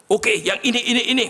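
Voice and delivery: high, bright-eyed pointing out; keen to choose her goals; eager picking. Retold or imitated. The woman choosing her dreams for the pastor, eager and high.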